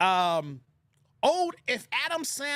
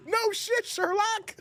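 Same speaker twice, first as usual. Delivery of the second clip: laughing; 11 semitones higher, much slower than usual. Real, not acted. Cracking up at the scene.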